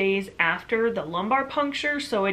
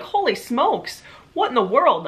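incredulous exclaim; 5 semitones higher, 4 dB louder than usual. Retold or imitated. Shocked at the guard's rudeness.

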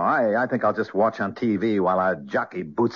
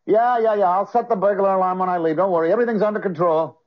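high, louder, eager reassurance; fake cheerful nephew; 9 semitones higher, 4 dB louder than usual. Mort fakes bright cheer as he leaves Uncle Joe. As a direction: overplay the dutiful nephew.

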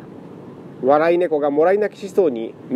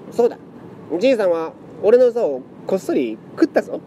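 shouting; 6 semitones higher than usual. Acted. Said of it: "謎かけ猫が叫んだ".

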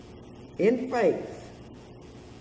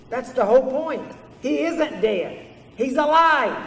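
emphatic reply; 5 semitones higher, 5 dB louder than usual. Retold or imitated. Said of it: "Pastor Ackley said".

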